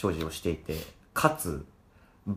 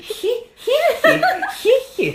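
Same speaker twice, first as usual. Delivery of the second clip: witch cackle imitation; 11 dB louder, faster than usual. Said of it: "ひ、ひっていう".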